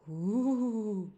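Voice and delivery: loud ghost moan; ghostly ooh. Acted. Ghost answering Franklin at the apple bobbing, loud moan.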